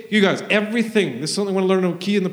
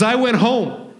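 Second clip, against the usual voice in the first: higher, laughing through it; giddy retelling of going home; a laughing woman's line; laughing recollection; 8 semitones higher, 4 dB louder, slower than usual. Retold or imitated. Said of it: "He says".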